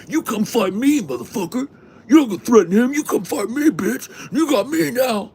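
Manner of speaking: squeaky high mock yell; mock hillbilly challenge. Hillbilly daring the vlogger to fight, high mocking squeal. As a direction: ham up a screeching hillbilly picking a fight. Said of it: "He's like".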